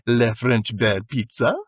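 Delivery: slow, lightly put-on French accent; mock French, presenting each dish slowly. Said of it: "like, French accent".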